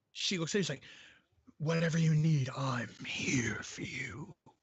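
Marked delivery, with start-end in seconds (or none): 1.6-4.4 slow, deep, sultry, seductive voice. Retelling what a woman said to the priest: put-on deep sexy guy tone. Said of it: "In this like deep, sexy guy tone".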